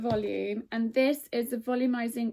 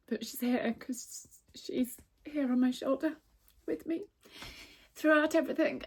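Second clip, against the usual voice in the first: choked up; 4 semitones higher than usual. Real, not acted. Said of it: "I really don't know why I'm crying".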